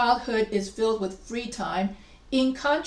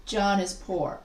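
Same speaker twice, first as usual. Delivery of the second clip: "John is poor" evenly weighted, falling to a close; equal weight; 3 semitones lower than usual. Shown as a demonstration. Teacher showing two equal sentences, even stress on "John is poor". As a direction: say "John is poor" without any punch. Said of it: "this becomes equal".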